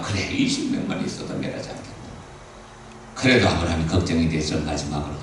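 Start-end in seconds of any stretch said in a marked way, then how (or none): 0.0-1.9 quiet God's reply. Acted. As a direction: answer softly, almost breathed. God answering Abraham.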